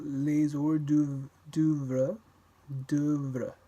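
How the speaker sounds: les hors d'oeuvre slowly, no liaison; lentement, sans liaison; slow demo. Shown as a demonstration.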